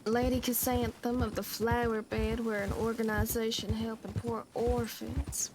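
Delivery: lightly put-on rich lady voice; a hint of an aristocratic swindler; posh accent. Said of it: "the rich accents".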